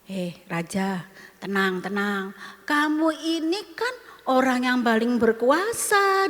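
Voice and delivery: a hint of a sly queen soothing her husband. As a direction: hush the sulking king gently. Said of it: "ngomong gini".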